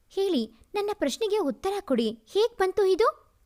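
demanding, building to a loud high question; a bit loud. Acted. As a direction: press him for an answer, voice rising. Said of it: "ತುಸು ಜೋರಾಗಿ ಕೇಳಿದಳು".

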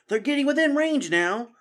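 high, loud battle shout. A narrator's reading. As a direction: shout it to the archers. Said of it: "shouted Matthias".

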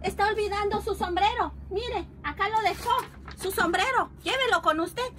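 agudo y fuerte, llamando a lo lejos; gritando al señor. Acted. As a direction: grita para que el señor vuelva. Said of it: "Y empezó a gritar". (viejecito grita al señor que olvidó su sombrero)

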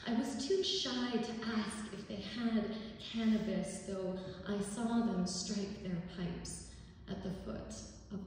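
measured spoken-word reading with long pauses; poem recitation. Acted. Local author reads their poem about community to an audience, poetry reading. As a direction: recite it line by line, letting each image land.

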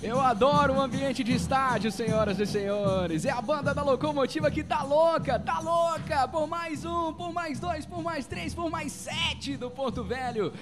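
loud, high cheering; excited hype. Real, not acted. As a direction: hype up the stadium. Hyping the crowd and band.

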